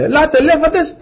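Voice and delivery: high-pitched summons, rising at the end; calling out. Acted. Noah summoning animals into the Ark, calling out. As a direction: call the animals over in a high voice.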